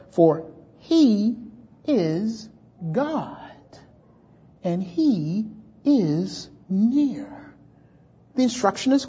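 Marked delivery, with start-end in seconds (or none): 0.1-7.5 hushed awe. Real, not acted. Preacher to congregation, hushed and slow. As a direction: drop low and soft, slow down. Preacher drops voice for God near.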